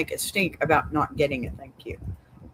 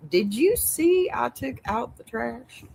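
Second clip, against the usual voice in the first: higher-pitched mock boastful husband; lightly mocking, pitched-up brag; mimicking the husband; 6 semitones higher than usual. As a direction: imitate a husband fishing for praise. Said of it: "While this man is popping up like".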